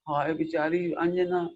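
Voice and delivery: slow, pitying lament for "बेचारी Anjana", dragged out; hammed-up tearful sigh over poor Anjana; mock weeping pity. Shown as a demonstration. Preacher mocking how not to read Anjana's story, slow tearful pity. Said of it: "ऐसे मत पढ़ो रो रो के".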